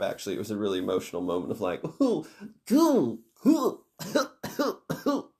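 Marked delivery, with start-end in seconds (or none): 2.0-5.3 high, exaggerated boo-hoo sobbing; mock choked-up sobs. Reader choked up at emotional moment, mock sobbing. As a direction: imitate crying in little high hoots. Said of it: "it really made me choke up".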